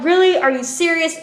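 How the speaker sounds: loud, high angry disbelief; exasperated. Retold or imitated. Victim yells at the fleeing truck in angry disbelief. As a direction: fling out an outraged really. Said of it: "I'm still angry".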